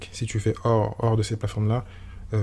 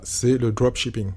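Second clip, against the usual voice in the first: mock English accent; slower than usual. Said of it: "avec mon super accent".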